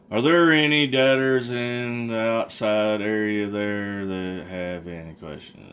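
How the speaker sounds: slow, drawn-out, fading sleepy voice; a trustee nodding off mid-question; drowsy trustee. Retold or imitated. The half-asleep trustee asking the room, slow and drowsy. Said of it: "went narco sleepy".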